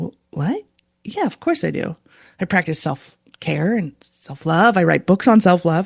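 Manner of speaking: put-on shocked tone. Retelling own answer to a friend's question: imitating own shocked reply. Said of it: "that shocked me. I was like".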